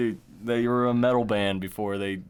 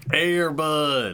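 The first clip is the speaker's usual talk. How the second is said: excited call; 6 semitones higher, 5 dB louder than usual. Real, not acted. Both call out the film title.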